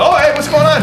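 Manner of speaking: a hint of a cheerful friend greeting; mimicking Casey. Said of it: "And he goes".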